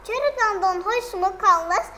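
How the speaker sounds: Red Riding Hood, loud and a little frightened, asking the wolf about its teeth. Acted. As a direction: ask it as a scared girl who has noticed the teeth. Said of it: "аз тарс тарсида гуфт".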